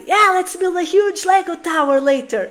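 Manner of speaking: upbeat mock parent voice; cheerful parent promise. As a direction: promise the Lego tower like a happy parent. Parent voicing a cheerful promise to child.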